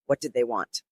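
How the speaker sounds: a hint of a hollow, distant voice. A narrator's reading. Stunned widow asks Charlotte, faintly hollow voice. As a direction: ask it lightly hollowed out, as if from a well. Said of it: "My voice sounded hollow as if from a well".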